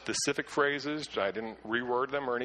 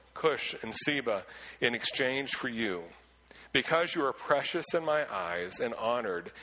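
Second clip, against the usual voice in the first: measured, solemn reading of the passage; scripture reading. Acted. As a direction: read it out as holy text to the congregation. Reads the Isaiah passage aloud.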